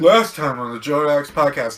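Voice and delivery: announcer recap voice; previously on recap. Pretend. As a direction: shout it like a TV recap intro. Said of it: "Let's recap".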